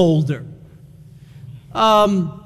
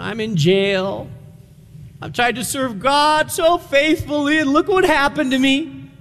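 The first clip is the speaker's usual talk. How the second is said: hammed-up woe-is-me complaint, mostly higher pitched; mock self-pity; 3 semitones higher than usual. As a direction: play at feeling sorry for yourself, pleading with God. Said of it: "in a puddle of self-pity".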